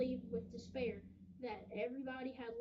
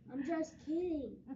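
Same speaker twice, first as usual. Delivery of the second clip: laughing; 6 semitones higher, 5 dB louder than usual. Acted. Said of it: "laughing so hard".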